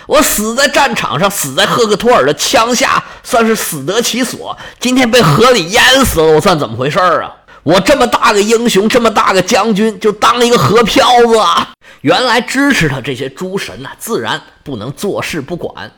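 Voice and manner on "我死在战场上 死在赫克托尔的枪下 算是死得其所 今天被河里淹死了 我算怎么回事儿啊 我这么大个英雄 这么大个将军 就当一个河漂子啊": frantic begging with shouted cries; a cornered warrior begging the gods, half shouting; desperate pleading hero. Acted. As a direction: hero begging the heavens for rescue, voice rising. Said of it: "又求爷爷又告奶奶".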